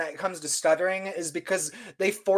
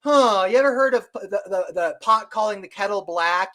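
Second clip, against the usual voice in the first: scornful retort. Retold or imitated. Mocking the government in retort.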